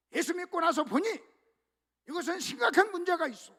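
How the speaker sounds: Paul's confession, rising in urgency; voicing Paul. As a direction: speak as Paul, growing earnest. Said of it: "바울이 지금 이런 얘기를 하는 거예요".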